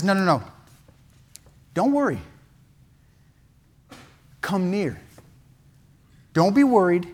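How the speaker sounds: acted tender forgiveness; gentle reassurance. Joseph reassures his guilty brothers.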